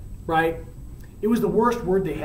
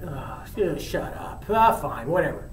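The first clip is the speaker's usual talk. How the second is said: fed-up dismissal; 4 semitones lower, 5 dB quieter than usual. Acted. Mercutio fed up with Romeo.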